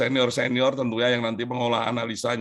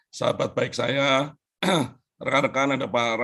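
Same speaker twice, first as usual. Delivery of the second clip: hoarse voice. Real, not acted. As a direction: push words through a hoarse throat. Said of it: "suara saya serak-serak hilang".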